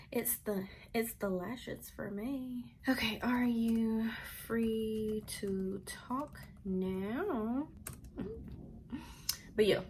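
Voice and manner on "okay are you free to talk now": slow, stretched-out words; drawn-out reading. Real, not acted. Vlogger going over mom's text message, slow and drawn out. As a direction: read the message out word by word, slowly.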